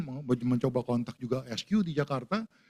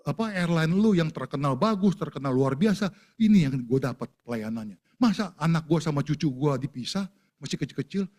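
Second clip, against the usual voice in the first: angry complaint. Retold or imitated. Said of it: "saya bilang gitu".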